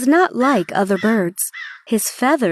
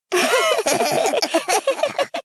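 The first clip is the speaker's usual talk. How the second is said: high giggle from the pair; a high, bright shared laugh; 11 semitones higher, 4 dB quieter than usual. A narrator's reading. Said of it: "They both laughed".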